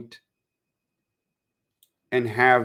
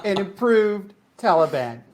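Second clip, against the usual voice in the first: mock Taliban spokesman; 6 semitones higher than usual.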